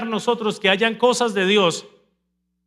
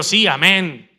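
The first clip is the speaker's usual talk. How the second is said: mock congregant; 3 semitones lower, slower than usual. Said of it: "y usted diciendo".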